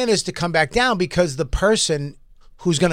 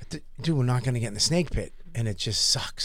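put-on quiet, fast, mildly mopey kid's voice; 5 semitones lower, 11 dB quieter than usual. Dad retells son's disappointment, quiet, fast and mopey. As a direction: mumble it like a let-down boy. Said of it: "He goes".

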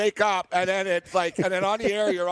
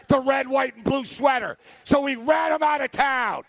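real heated sports rant, voice pitched up; getting mad; 4 semitones higher than usual. Real, not acted. Fired-up fan ranting at co-host about Vegas as an expansion team, mad. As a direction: argue hotly, half shouting. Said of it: "Now I'm getting mad".

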